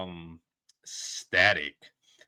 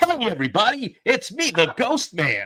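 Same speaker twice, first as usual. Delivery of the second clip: put-on very high pre-puberty boyish kid voice; 12 semitones higher, 4 dB louder than usual. Plugging a podcast, the speaker shows how its host sounds: imitating Sean Burris, the Ghost Man. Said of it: "like he was an eleven year old that hasn't hit puberty yet".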